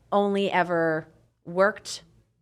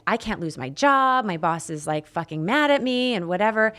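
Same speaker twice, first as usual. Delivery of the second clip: a bit louder, heated retelling of her anger; retold anger; 4 semitones higher, 6 dB louder than usual. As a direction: replay the panic and anger at him, somewhat raised. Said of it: "And I was very angry".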